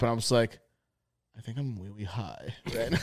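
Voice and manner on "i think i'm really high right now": put-on soft, lower little baby-talk confession; timid three-year-old with R turned to W; imitating frightened toddler. Scared stoner confesses to his girlfriend, toddler-like. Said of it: "talking like I was three".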